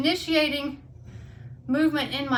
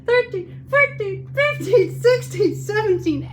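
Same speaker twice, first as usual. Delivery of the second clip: high, loud count through exertion; strained counting; 8 semitones higher, 6 dB louder, slower than usual. Real, not acted. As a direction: push the numbers out through the burn. Counting through last hard reps.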